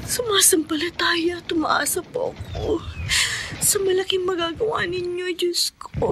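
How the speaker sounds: hushed prayer; tearful prayer. Acted. Prays alone in fear.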